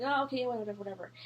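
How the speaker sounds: mock dismissive mumble, fading out; dismissive brush-off. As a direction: shoo them off, dropping away on the last word. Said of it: "like, shooing me off".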